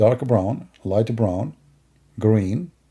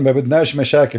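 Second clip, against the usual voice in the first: put-on Palestinian accent; 3 dB louder, much faster than usual. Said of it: "this is a Palestinian accent".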